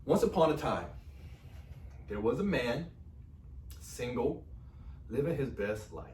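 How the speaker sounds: playful fairy-tale opening with measured pauses; mock storytelling. Husband starts telling how they met, mock story-time delivery. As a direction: set it up like a storybook, phrase by phrase. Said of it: "Are y'all ready for story time?".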